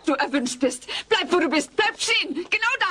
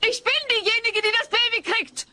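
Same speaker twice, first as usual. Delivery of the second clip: higher, sharp retort; exasperated; 8 semitones higher than usual. Real, not acted. Kate snaps at Alf about who is having the baby. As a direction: snap back at him.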